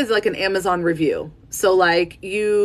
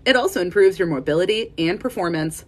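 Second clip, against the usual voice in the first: slurred words. Shown as a demonstration. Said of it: "I, like, slurred my words there".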